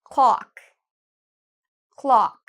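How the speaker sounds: clock with a wide open ah; clock to repeat. Shown as a demonstration. Teacher saying clock for learners to repeat. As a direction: model clock for repetition. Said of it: "repeat after me".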